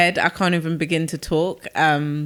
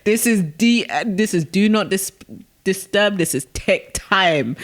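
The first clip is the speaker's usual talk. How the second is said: defiant mum; 4 semitones higher, 4 dB louder than usual. Retold or imitated. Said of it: "And she was like".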